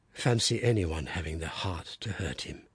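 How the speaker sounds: low, soft muttering to himself; muttered. Acted. Father over his wounded baby, low muttering. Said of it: "he muttered".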